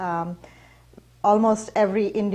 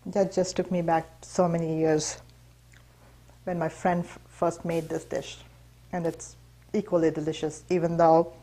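talking through a mouthful of food; chewing while she speaks; mouth full; 3 dB quieter than usual. Real, not acted. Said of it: "I'm talking with my mouth full".

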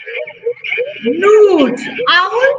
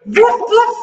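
dog bark; 3 semitones higher than usual. Shown as a demonstration. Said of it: "Sound of dog".

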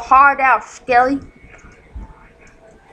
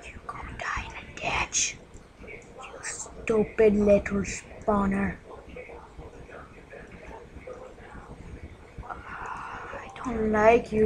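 slow unvoiced whisper of insults; 3 semitones lower, 10 dB quieter than usual. Real, not acted. Gamer hiding from zombies, whispering threats. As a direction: hiss it softly at the monsters.

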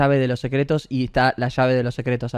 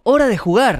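prince's line; 8 semitones higher, 4 dB louder than usual. A narrator's reading. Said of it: "el príncipe dijo".

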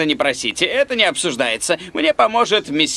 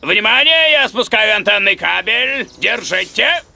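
raised, higher warning call; 3 semitones higher than usual. Acted. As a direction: call out from the rooftop to those below. Calls down from the roof. (громко кричит с крыши)

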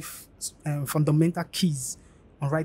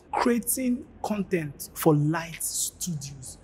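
enticing story pitch. Shown as a demonstration. Teacher demonstrating an enticing CV line, slow and selling. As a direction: paint yourself as the hero of a short story. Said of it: "this is how it should sound".

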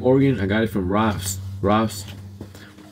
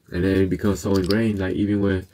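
ordinary talk, nothing marked

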